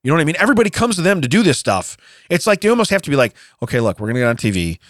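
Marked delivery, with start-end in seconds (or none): 3.6-4.8 off-camera aside. Retold or imitated. Couple's private talk before filming.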